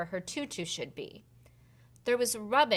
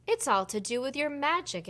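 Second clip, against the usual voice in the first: head fairy explaining; 5 semitones higher than usual. Acted. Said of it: "explained Natalie the head fairy".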